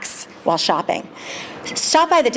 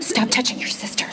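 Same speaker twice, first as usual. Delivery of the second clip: whisper yelling; 3 semitones higher, 4 dB quieter than usual. Retold or imitated. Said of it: "whisper yell to my kids".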